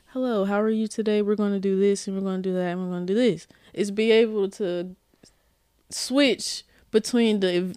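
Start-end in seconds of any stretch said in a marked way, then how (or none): 0.1-3.5 code switching professional. Shown as a demonstration. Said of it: "Being able to be like".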